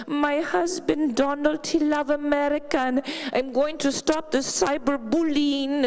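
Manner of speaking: lightly put-on Slovenian accent, slow and careful; a hint of Slovenian accent on every word; Melania's accent. Comic imitating Melania to the audience, mild Slovenian accent. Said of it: "I love Melania because I love accents".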